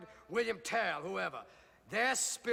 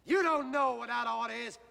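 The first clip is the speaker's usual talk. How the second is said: loud, raised-pitch defiance; outraged and forceful; indignant outburst; 3 semitones higher, 5 dB louder, faster than usual. Acted. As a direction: throw the rebuke back angrily. Rebuked, erupts in defiance.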